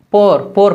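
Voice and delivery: "पोर" with a single long o, like pore. Shown as a demonstration. Teacher showing how the UK says poor, long o in "पोर". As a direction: repeat "पोर" with the o held. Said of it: "UK में".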